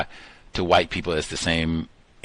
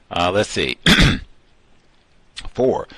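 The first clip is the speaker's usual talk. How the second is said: ordinary talk, nothing marked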